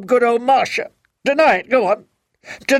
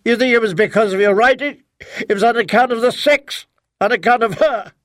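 wound him with every line; bitter accusation; 6 semitones higher than usual. Acted. Wife keeps attacking husband.

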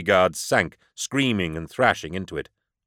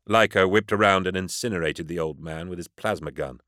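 usual speaking voice

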